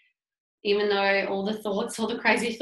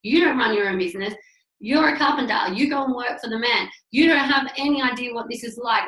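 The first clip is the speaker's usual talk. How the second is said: lashing out. Retold or imitated. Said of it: "lashed out at my husband".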